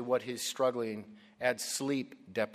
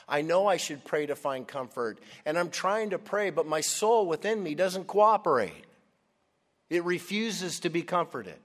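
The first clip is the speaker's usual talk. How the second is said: louder, higher, frustrated plea; acted anguish; 6 semitones higher, 5 dB louder than usual. Preacher voices Asaph struggling to pray, in raised anguish. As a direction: build into a distressed confession of failing prayer.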